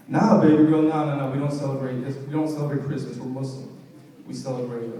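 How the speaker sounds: smooth pickup-line voice, playing it cool; sexy voice. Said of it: "in my sexy voice".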